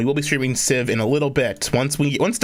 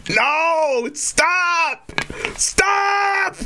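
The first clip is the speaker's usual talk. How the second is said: horrified shout; much slower than usual. Pretend. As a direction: shout in mock horror. Mock horror at TTS.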